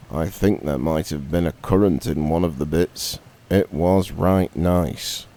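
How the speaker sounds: a lightly voiced robin, reminiscing; lightly voiced friendly robin; chatty robin. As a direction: gossip about the cake fondly. Robin describes farmer's wife's cake.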